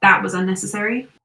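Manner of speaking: dismissive American villain, lightly voiced; American accent. Old colleague mocks the magic, light American accent. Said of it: "it's American accent".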